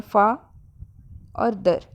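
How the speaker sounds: "फा", pause, और "दर"; teacher breaking फादर into "फा" and "दर"; syllables shown separately. Shown as a demonstration. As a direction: set "फा" and "दर" apart as two parts. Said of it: "इसमें दो part में हम बोल रहे हैं".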